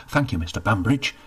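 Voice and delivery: can't hold it in; eager blurt of thanks. Acted. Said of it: "he blurted, unable to contain himself".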